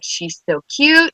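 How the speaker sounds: high, drawn-out cooing imitation; imitated teacher. Teacher gushing about a little girl, imitated cooing. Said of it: "Miss Canada's like".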